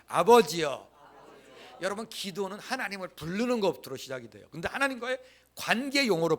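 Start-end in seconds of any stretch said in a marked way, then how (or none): 0.1-0.9 아버지여 called out loud and full, falling at the end. Shown as a demonstration. Pastor has the congregation echo the prayer, calling out loud. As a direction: cry out 아버지여 to God for the room to repeat. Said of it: "따라 보겠습니다".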